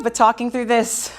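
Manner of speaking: winded, fading to soft; out of breath. Real, not acted. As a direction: trail off out of breath. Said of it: "talking through this feels like a lot more".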